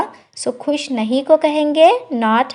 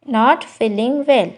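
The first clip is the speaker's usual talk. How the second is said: slow, careful repeat; slow teacher repetition; slow demo; much slower than usual. Shown as a demonstration. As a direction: say each word slowly for learners. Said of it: "slow model phrase".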